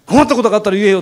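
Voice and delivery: protective, big-brotherly push; fired-up cop. Retold or imitated. Policeman handing over his card, imitated eager. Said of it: "お巡りさんの方が興奮してる".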